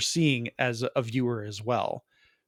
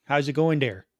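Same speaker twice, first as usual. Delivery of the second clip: put-on Canadian accent; 2 semitones higher than usual. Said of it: "Or Canadian accent".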